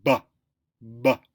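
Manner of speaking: ba with the voice buzzing; voiced ba. Shown as a demonstration. Teacher showing a voiced b sound. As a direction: voice the b, feel the throat hum. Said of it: "and now go".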